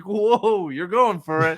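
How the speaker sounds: high-pitched, teasing astonishment; mock amazement. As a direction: react as if taken aback by her boldness. Acts out amazement at her accent.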